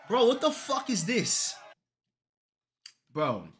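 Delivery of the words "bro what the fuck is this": much higher, drawn-out shout of shock; slow squealed outrage; high disbelieving shout. Real, not acted. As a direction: yell in stunned disbelief. Shocked at character.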